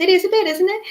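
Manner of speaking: put-on Scouse accent. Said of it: "she says in a really Scouse accent".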